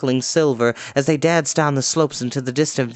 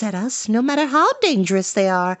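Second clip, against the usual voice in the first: high character voice; 12 semitones higher than usual. Acted. Character speaking in story.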